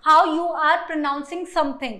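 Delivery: very slow, "speak" stressed; teacher defining phonetics slowly; slow explanation. Shown as a demonstration. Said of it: "phonetics क्या है".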